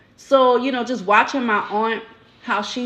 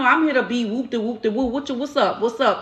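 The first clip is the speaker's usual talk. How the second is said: lightly hammed-up, quick casual street talk, pitched up; mock street greeting; 4 semitones higher than usual. Walking up in a place talking street, mock greeting. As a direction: play a breezy, slangy walk-in greeting.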